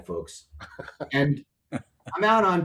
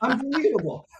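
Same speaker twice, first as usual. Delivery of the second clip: amazed exclamation; 13 semitones higher, 4 dB louder than usual. Retold or imitated. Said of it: "I was like".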